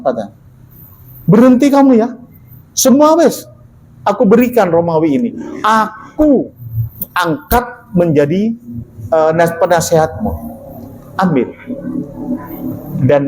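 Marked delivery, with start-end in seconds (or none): 1.3-11.5 commanding emperor. Acted. Emperor offering Rome, voiced.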